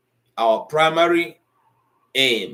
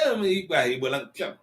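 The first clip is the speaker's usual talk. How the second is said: mock reluctance; 4 semitones higher than usual. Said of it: "they say".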